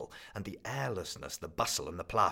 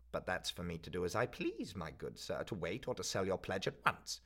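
a miserly crone laying down the rules; the pawnbroker telling the student his pledge has lapsed, coldly; stern old pawnbroker. Acted. Old woman asserts power.

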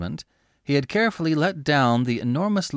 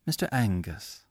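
steady; 2 semitones lower, 4 dB quieter than usual. Acted. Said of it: "she said steadily".

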